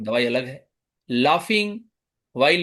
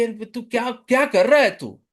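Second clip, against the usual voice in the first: abusive patient; 3 semitones higher, faster than usual. Shown as a demonstration. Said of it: "वो इस तरह की भाषा बोल सकता है".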